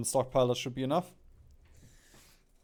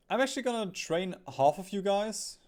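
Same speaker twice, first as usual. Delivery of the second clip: excited planning; 4 dB louder than usual. Real, not acted. Committing troops, louder decisive plan.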